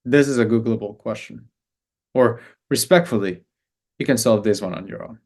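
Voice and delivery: polite but firm, in the speaker's own voice; nicest way possible. Retold or imitated. Coach telling a needy client to solve it alone, politely firm. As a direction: set the boundary gently and kindly. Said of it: "in the nicest way possible".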